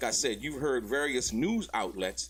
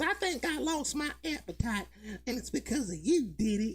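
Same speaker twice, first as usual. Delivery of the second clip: put-on light Southern accent, pitched very high; 12 semitones higher than usual. Retelling what she said to Diddy, use a Nancy Grace voice with her little Southern accent. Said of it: "she she got her little Southern accent".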